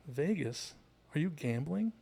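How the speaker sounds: lightly voiced mom jumping to conclusions; classic clueless mom. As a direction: imitate an assuming mother. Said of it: "the mom does the classic mom".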